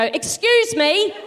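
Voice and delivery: drawn-out, very slow, put-on polite voice; pointed excuse me. To escalator blocker, slow mock-polite excuse me. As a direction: lean in close behind their neck. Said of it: "I go".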